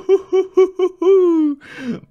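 very high hooting laughter; whooping laugh. Real, not acted. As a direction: hoot with high triumphant laughter. Celebrates escaping.

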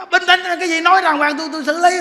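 high, loud take-charge voice; husband trying to calm his frightened wife; loud attempt to calm. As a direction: shout the calming words while panicking.

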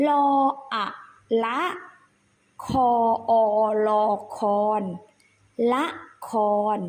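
ละคร spelled out in spaced syllables; spelling drill. Shown as a demonstration. Teacher repeats for the children, measured spelling recitation. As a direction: sound out ละ, then คอน, then join them. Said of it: "อีกครั้งนะ".

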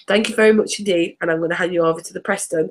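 speaking with a runny nose; sniffly, runny nose voice. Real, not acted. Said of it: "blow this nose because he's running at a rate".

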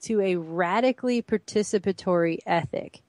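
measured, deliberate read-aloud; slow reading. Real, not acted. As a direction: read it out slowly for close attention. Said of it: "let's read that again slowly".

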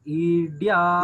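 ఈడ్యాః chanted with its last vowel drawn out; mistaken long svarita. Shown as a demonstration. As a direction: hold the end of ఈడ్యాః too long. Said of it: "దీర్ఘస్వరితం లేదు". (ఈడ్యాః దీర్ఘస్వరితంతో సాగదీసి)

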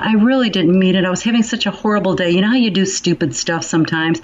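a touch of a sheepish troll saying sorry; mock online basher apologizing. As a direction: ham up a half-hearted excuse. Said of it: "the person who bashes you".

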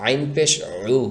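উ pressed from inside the throat; squeezed আইন. Shown as a demonstration. Teacher demonstrates throat pressure on আইন, squeezed. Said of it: "গলার ভিতরে চাপ দিয়ে".

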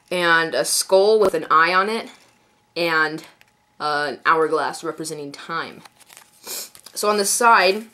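stuffy blocked nose from a cold; congested. Real, not acted. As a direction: speak through a congested nose. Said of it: "I'm a little congested because I have a little cold".

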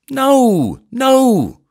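high, loud, laughing protest; cornered vicar laughing it off. A narrator's reading. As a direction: laugh the denial out.

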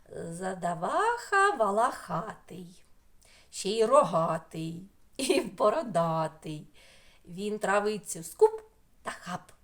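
slow, rhythmic riddle recitation; riddle reading. Acted. Teacher reading a riddle to children, slow rhythm. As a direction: read the riddle slowly, with a beat.

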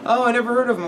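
put-on high curious little boy; kid voice. Kid asks about the drawing, in a high voice. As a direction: ask it like a small kid.

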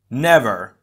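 loud, croaked refusal; hoarse, determined. A narrator's reading. Tahu refuses to retreat, hoarse and determined. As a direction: croak it out with fierce resolve. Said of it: "his voice hoarse but determined".

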